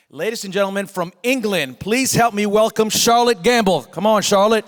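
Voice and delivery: loud, high announcer's welcome; rousing stage introduction. Real, not acted. Host calls the guest speaker up to the stage, rousing announcement. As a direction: build to a big, shouted welcome.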